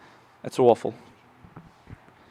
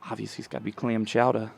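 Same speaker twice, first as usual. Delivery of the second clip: put-on Boston accent; 3 semitones lower than usual. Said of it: "that was our resident Bostonian".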